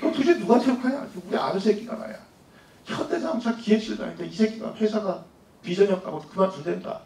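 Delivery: acting out a friend's boozy rant; retold drunken cursing. Drunk father complaining about his son quitting, mock cursing. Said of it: "술을 먹더니 막 새끼 막 욕을 막 하고".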